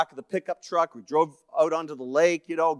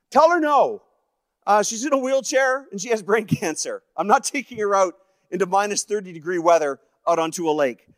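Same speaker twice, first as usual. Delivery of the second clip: raised, high voice refusing outright; shouted refusal; 6 semitones higher, 5 dB louder than usual. Retold or imitated. Dad refuses to take sick wife skating, shouting back high. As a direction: re-enact an exasperated dad calling back.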